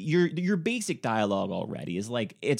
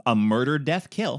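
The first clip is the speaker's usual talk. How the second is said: action movie voice; 5 dB louder than usual. Acted. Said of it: "it's a".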